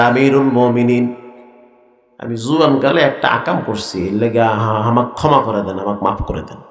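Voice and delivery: low, halting plea for forgiveness; mildly frightened confession. Acted. Trembling uncle confessing to the caliph, mildly frightened. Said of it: "হাত পা কাঁপা শুরু হয়ে গেছে".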